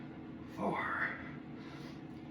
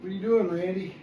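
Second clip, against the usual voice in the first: complaining back; 4 semitones higher than usual. Retold or imitated. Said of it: "My back's already cursing me. Saying".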